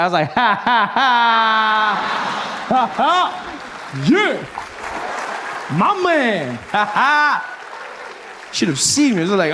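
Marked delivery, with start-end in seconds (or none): 0.3-8.5 imitated cool laugh. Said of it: "I was even laughing black".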